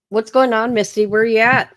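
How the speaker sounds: loud call across the house. Real, not acted. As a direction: call out to find her. Calling out for Misty.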